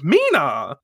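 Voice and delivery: calling after someone, not full voice; a restrained imitation of yelling a name; mild mock yell. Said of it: "yells after her".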